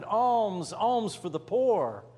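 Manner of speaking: mild beggar's call. Acted. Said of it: "And so they shouted".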